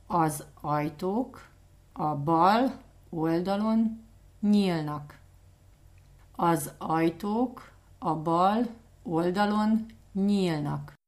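Az ajtók a bal oldalon nyílnak spoken slowly in chunks; slow and clear. Shown as a demonstration. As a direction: break it into slow chunks for learners. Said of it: "Can you say that again".

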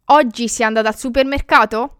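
"Oggi sei andata al supermercato" asked quickly, rising at the end; question tune. Shown as a demonstration. Teacher asking instead of stating, rising question tune on "supermercato". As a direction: ask it, lifting the last syllables of "supermercato". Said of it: "hear the different way I'm pronouncing it".

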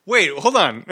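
high squealing laughs; laughing. Real, not acted. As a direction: laugh in disbelief. Host laughs in disbelief.

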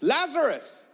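huge high shout of the name. Acted. Jesus calling his dead friend from the tomb, a huge high shout. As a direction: call him out of the tomb at full voice. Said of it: "he just shouts".

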